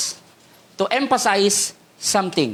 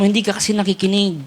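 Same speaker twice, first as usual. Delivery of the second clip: mock whisper to neighbor; faster than usual. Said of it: "Sabi mo sa katabi mo".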